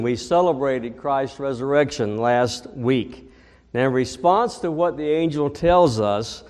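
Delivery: ordinary delivery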